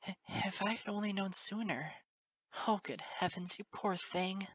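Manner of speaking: high, halting remorseful woman; tearful stammer. A narrator's reading. Teacher regretting she hadn't known, tearful stammer. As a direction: stammer it, close to tears. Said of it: "Her eyes were moist as she stammered".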